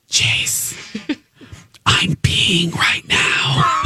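slow, laughing whisper in the ear; hushed confession into his ear. Retold or imitated. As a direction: breathe it secretly, giggling. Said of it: "she whispers to me".

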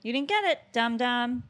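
lightly voiced dog-talk, coaxing the pet. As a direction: coax the dog like a pet owner. Talking to her dog.

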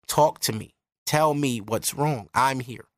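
slow, gentle comforting words; slow right down and soothe; tender reassurance. Retold or imitated. Girlfriend comforting her upset boyfriend, slow and tender. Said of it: "understanding enough to say".

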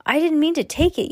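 high, loud frightened shout. A narrator's reading. Boy fleeing the mummy, shouting back high and loud. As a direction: yell back over your shoulder while running. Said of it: "Yo-Yoji shouted over his shoulder".

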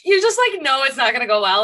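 excited. Real, not acted. Excited reaction to scene.

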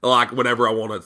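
put-on soft, low good-old-boy voice; hushed Southern put-on; Braun Strowman. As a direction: keep up the quiet country wrestler impression. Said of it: "I love the Braun Strowman voice".

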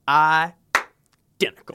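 very slow, drawn-out "identical"; quoting the DA. Retold or imitated. College friends mimic the DA, slow and drawn-out. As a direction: stretch it out like the prosecutor. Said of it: "anytime something was similar to something else".

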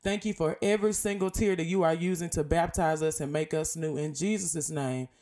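earnest spoken prayer. Acted. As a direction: pray steadily to God. Leads closing prayer.

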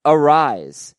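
"Arise" in two syllables, ending on a z; pronounced Arise. Shown as a demonstration. Host reading out a listener's name tip, careful pronunciation. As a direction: say "Arise" slowly and clearly. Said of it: "He pronounces it".

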